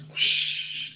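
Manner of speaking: whispered whooshing flush noise; toilet flush whoosh. Retold or imitated. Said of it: "you hear the toilet flush".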